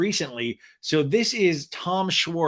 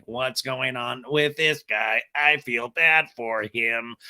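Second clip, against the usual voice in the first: slow, lower robot Martian; 3 semitones lower, slower than usual. Pretend. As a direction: drone it like a robot alien. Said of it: "my Martian voice is kind of also a robot voice".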